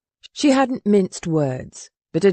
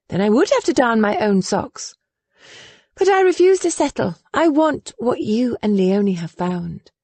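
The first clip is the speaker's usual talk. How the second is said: put-on lightly raised voice, earnest young lady; earnest and stubborn young woman; young woman, determined; 4 semitones higher than usual. Willa speaks, higher voice.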